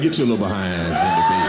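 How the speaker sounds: loud fed-up order; dad yelling. Retold or imitated. Dad ordering kids to bed, loud. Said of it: "I'm like".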